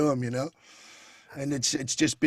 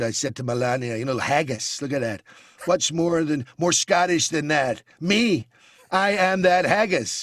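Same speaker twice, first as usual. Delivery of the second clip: Trump impression. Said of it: "And then you've got the Donald".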